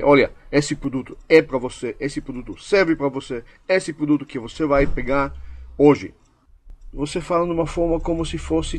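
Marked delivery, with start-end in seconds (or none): 0.0-6.1 stellig, als een bevel; commando aan de klant. Shown as a demonstration. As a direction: tell the client as a firm command. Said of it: "no forma de dar um comando".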